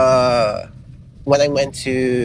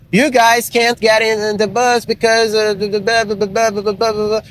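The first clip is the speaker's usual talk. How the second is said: a light, higher-pitched Scottish accent in a retold brush-off; mock Scottish accent; 6 semitones higher than usual. Scottish bus driver turning the couple away, lightly mimicked Scottish accent. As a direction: play the Scottish bus driver waving them off in his accent. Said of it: "because it was a Scottish accent".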